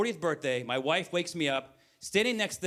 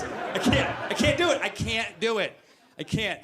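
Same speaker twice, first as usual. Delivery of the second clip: high, worked-up protest; exasperated self-reproach; 5 semitones higher than usual. Retold or imitated. Comedian admitting he can't be trusted with numbers, exasperated outburst. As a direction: throw up your hands in mock despair. Despairing at his own behaviour.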